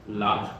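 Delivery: "La." said with a rising pitch like a question. Shown as a demonstration. Teacher demonstrating to the class, "La." on a rising tone. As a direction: slide "La." upward at the end. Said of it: "try saying this word in a rising tone".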